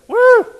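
loud high whoop; woo shout. Real, not acted. Preacher whooping to the congregation in a loud high shout. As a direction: let out a joyful whoop. Preacher exults mid sermon.

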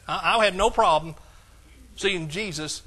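ordinary talk

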